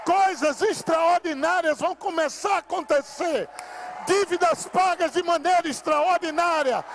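rousing revival preacher at full cry; full-force preaching. Real, not acted. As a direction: preach it to the rafters.

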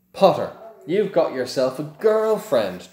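drawled taunt. A narrator's reading. Malfoy drawls a taunt at Harry, sneering. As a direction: drag the words out to mock Harry. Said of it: "drawled Malfoy".

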